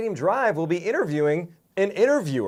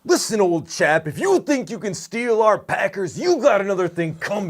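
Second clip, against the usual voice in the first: mock British accent. Mocking the British guest back.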